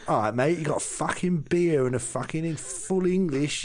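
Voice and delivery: high-pitched loutish British tourist; high, sweary holidaymaker rant; Brit abroad in Spain. Acted. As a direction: play a boozy Brit demanding home comforts in Spain. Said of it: "You're forgetting he's got a West Country accent".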